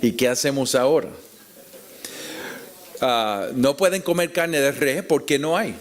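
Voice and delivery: normal talking voice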